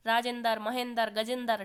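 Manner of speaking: राजेंद्र, महेंद्र, गजेंद्र all ending "-dar"; forced cluster-splitting. Shown as a demonstration. Teacher listing examples, राजेंद्र said as "raa-jen-dar". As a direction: add a vowel inside each final "dr", as in राजेंद्र. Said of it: "जोर लगा करके बोलना".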